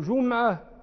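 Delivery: جمعة said "JUM-'a", no vowel after the m; sukun as original. Shown as a demonstration. Teacher giving the opposite view, جمعة as "jum'a". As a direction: close the first syllable of جمعة on m. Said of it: "بل العكس".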